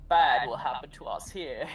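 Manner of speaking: raspy cawing crow voice; crow impression. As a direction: croak it out like a crow. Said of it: "That was my crow impression".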